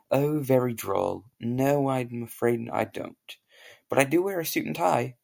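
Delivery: put-on posh British accent. A posh Englishman greets an American, in a British accent. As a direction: play the proper English gent. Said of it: "I have a very good British accent".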